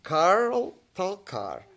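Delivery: slowed, each syllable clear in Karol Tolkar; slow and deliberate. Shown as a demonstration. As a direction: say Karol Tolkar slowly and carefully. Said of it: "Can you explain that?".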